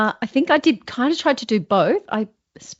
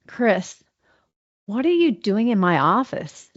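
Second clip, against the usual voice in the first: American accent, voice pitched down; slower than usual. Shown as a demonstration. American accent for the coach, pitch lowered. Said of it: "That's so much better".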